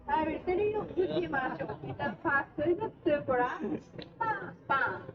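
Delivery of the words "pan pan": two punchy spoken claps, pan pan; chanted clap beat. Shown as a demonstration. Guide teaching riders the clap rhythm, punchy chanted beats. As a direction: call out the clap rhythm for the crowd. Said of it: "I will show you how to do it like this".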